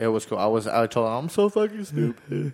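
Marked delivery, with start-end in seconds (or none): 1.1-2.5 mock self-reproach. Retelling what he told them.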